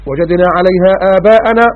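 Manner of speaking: slow, drawn-out melodic recitation; Quranic recitation. Acted. Preacher reciting the verse to the congregation, slow melodic chant. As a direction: chant the verse slowly, stretching each word.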